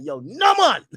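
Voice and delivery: a light Jamaican accent cuss. Shown as a demonstration. Jamaican accent shown for cussing somebody out. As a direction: brush him off in a Jamaican accent. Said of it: "you gotta be like".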